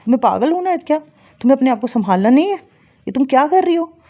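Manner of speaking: half-serious scold, pitch pushed up; retold scolding. Scolding her client Jasleen for letting herself slide, mock-angry. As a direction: tell her off like a caring elder sister. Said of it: "गुस्से में उनको थोड़ा डांटा".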